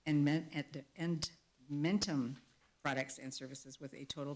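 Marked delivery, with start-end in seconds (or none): 0.2-2.4 "Men-, Ed-, Edmentum" pieced out slowly; stumble, then slowly land on "Edmentum"; careful sounding-out. Real, not acted. Board chair correcting a product name in a motion, slow careful sounding-out.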